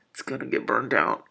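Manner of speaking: laughing aside. Real, not acted.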